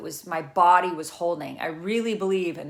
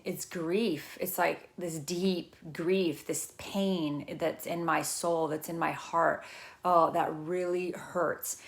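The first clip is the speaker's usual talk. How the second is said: understated grief, voice dropped and drawn out; quiet grief; 5 dB quieter, slower than usual. Acted. Speaker voices what surfaced in therapy, softly grieving. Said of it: "I'm usually like".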